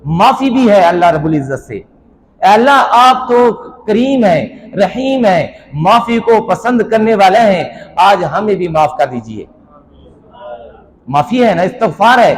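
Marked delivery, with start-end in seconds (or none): 1.7-9.4 pleading prayer. Acted. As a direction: plead to God, stretching the opening call, then easing down. Voices the dua as a plea. (ٹھہر ٹھہر کر التجا بھری دعا)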